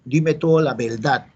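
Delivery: Puerto Rican l for r, "verdad" as "beldá"; Puerto Rican accent. Acted. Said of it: "El boricua dijo".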